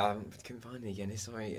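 soft, sheepish dad voice, lightly imitated; apologetic dad. Dad sorry there was no Guinness, soft and sheepish. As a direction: murmur the apology. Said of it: "he was kind of like".

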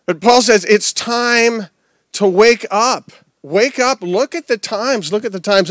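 preacher calling the church awake; urgent wake-up call. Real, not acted. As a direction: rouse the sleepy room. Preacher urging congregation to wake.

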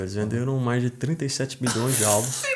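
choking a little mid-sentence; swallowed wrong way. Real, not acted. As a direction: catch in the throat, laughing. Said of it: "deu até engasgado aqui".

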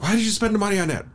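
very high, fast mock scolding; mimicked scolding wife. Husband predicting his wife's reaction to a purchase, high mock scolding. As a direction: imitate her objection in a rushed high voice. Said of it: "she'll be like".

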